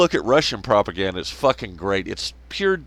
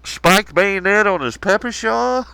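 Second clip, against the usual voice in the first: amazed disbelief; 8 semitones higher than usual. Retold or imitated. Viewer spotting an absurd weapon, astonished high outcry. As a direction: marvel at it like you can't believe it. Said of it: "And you're going".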